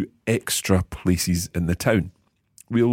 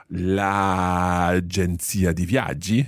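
slow, drawn-out example phrase; l'agenzia di viaggi spelled out slowly; much slower than usual. Shown as a demonstration. Teacher slowly reads an example to learners. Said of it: "It sounds a bit funny".

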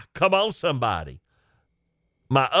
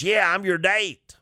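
lightly put-on smoker's voice, pitched up; older woman's smoker voice; 5 semitones higher than usual. Older woman tells him she's his date, in a mild smoker's voice. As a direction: imitate a chain-smoking lady, a little. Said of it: "Sounded like she'd been smoking".

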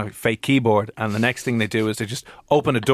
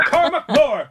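much higher mock parental yell; parent scolding; 4 dB louder, slower than usual. Parent to child using the surname, mock telling-off. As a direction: call out the full name like a cross parent. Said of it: "parental flashbacks".

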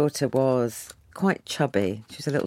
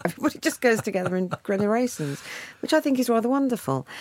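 bright laughing rush, a bit higher and faster; laughing delight; 9 semitones higher, faster than usual. Real, not acted. Author laughing about big Indian family groups, delighted and quick. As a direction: laugh through it, charmed by the idea.

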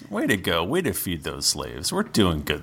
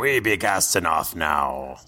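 pirate talk. Acted. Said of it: "We talk like a pirate".

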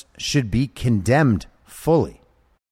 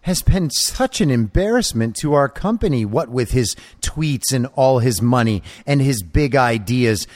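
put-on small child voice; 3 semitones higher than usual. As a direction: whine it like a spoiled child. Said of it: "a grown man making a small child voice".

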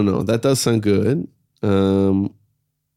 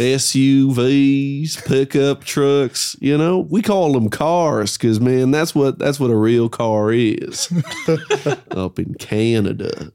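Canadian accent; 2 semitones higher, slower than usual. Real, not acted. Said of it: "slipped into your Canadian accent".

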